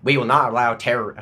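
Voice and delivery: lightly voiced presidential statement; George Bush attempt. Comic trying a president on terror, light Bush voice. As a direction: make a half-hearted stab at Bush. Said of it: "I can't do it, George Bush".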